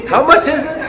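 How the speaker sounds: high, loud squeaked question; comic alarm. Retold or imitated. Student at financial aid facing numbers, high-pitched alarm. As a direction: squeak it in baffled sticker shock.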